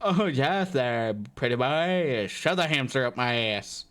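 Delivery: slow, low, hammy sultry voice; lightly voiced Mister Slave, drawn out; Mister Slave impression. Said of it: "that is the terrible Mister Slave impression".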